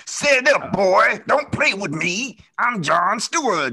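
grunting Mister T impression, slow; gruff military voice. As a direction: bark it like a tough drill sergeant. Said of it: "he has a military voice".

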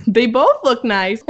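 slow mock Minnesotan talk-show segment title; Minnesota accent. Quoting an SNL sketch, playful Minnesota accent. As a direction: imitate a Minnesotan morning host, drawn out. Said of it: "a Minnesotan morning talk show".

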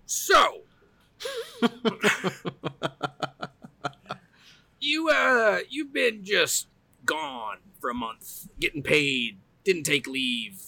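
high mocking boss voice; boss quote. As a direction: play the boss, pitched high and amused. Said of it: "And he's like".

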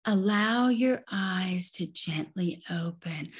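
slow, soft yoga cue; drawn-out gentle yoga instruction; gauzy yoga teacher. Retold or imitated. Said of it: "I would hear a teacher say something like".

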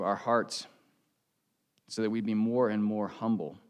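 steady prayer voice. Real, not acted. Pastor leads the congregation in closing prayer. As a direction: lead the church in earnest prayer.

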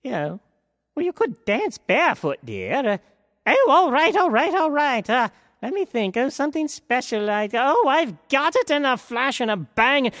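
put-on high, flustered old fairy voice; a dithery fairy godmother fussing to herself. A narrator's reading. Fairy godmother flustered, speaking to Cinderella in a high voice.

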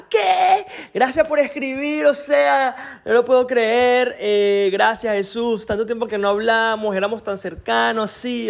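imitating an excited friend. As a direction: play the old friend who can't believe the message.

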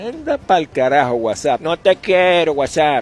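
mock angry shout. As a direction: tell the app off loudly, in play. Mock outburst at WhatsApp's constant pinging.

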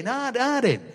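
mock Sheffield accent with a wide A; a light Sheffield accent impression. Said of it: "they got this wide A".

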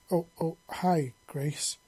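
slow, halting, embarrassed stammer. Acted. Shy Zex greets Grace, stammering. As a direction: trip over the greeting shyly. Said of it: "he stammered".

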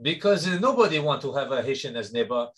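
light put-on Martinique French accent; lightly voiced French accent, hesitant and earnest; mock French Caribbean accent. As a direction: cohost goads him to show his real accent. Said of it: "an opportunity for you to open up".

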